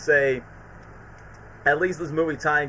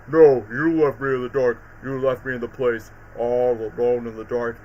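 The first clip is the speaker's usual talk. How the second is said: lower, a lightly voiced resentful villain; imitating Electro; 5 semitones lower than usual. Electro accusing Spider-Man of abandoning him, lightly imitated. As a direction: brood on being left alone. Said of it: "his voice was so different".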